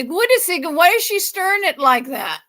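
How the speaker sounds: imagined viewer. Pretend.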